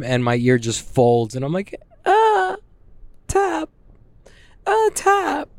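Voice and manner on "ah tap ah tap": tiny high falsetto yelp; mock pained squeal. Grappler retelling his tap-out as ear folds, mock squeal. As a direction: squeak it out like tapping in pain. Mimics himself tapping out in pain.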